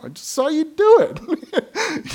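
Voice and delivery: slow, high, mock-stern dad; a touch of caught-you father; imitating himself as dad. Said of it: "you know".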